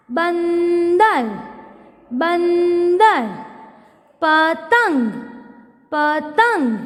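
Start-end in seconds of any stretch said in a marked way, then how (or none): 0.1-3.3 बंदर stretched very slowly, nasal न heard; slow classroom model of बंदर; slow teacher reading. Shown as a demonstration. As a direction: draw out बंदर for children to copy. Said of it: "चित्र देखकर शब्द पढ़ो".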